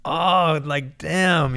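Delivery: high, loud burst of feeling; a stranger's kindness hits him, he exclaims high and loud; overwhelmed exclamation. Retold or imitated. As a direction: cry it out, caught off guard. Moved by the lady's kindness.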